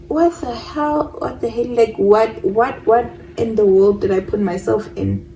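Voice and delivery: retold exasperation, groping for words; frustrated. Woman recalling her disbelief at his news, frustrated. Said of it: "I'm frustrated because".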